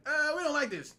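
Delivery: high, loud mocking voice; hammed-up mock complaint; mock whiny townsfolk. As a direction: sneer it like a resentful neighbour. Mocking quote of angry townsfolk.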